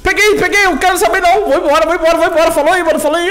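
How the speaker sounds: high, loud, frantic yelling; real high-pitched getaway shouting; excited screaming. Real, not acted. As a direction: scream it as you grab it and run. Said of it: "eu tô gritando".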